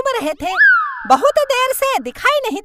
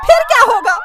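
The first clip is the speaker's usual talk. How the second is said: panicked wail; 3 semitones higher, 5 dB louder, faster than usual. Acted. Wife afraid of being caught, loud frightened wail. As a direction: wail in fear of getting caught.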